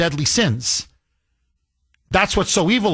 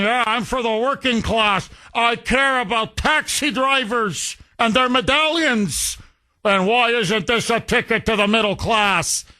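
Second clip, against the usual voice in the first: mocking a politician's campaign pitch, lightly voiced; a hint of a sneering populist; mock screech; 4 semitones higher than usual. Host mocking Mamdani's worker talk, lightly sneering imitation. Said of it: "The way Lenin screeched about the workers".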